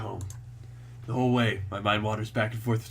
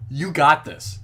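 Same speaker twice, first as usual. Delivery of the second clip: hype pep talk; 2 semitones higher, 5 dB louder, slower than usual. Real, not acted. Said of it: "pep talk to himself".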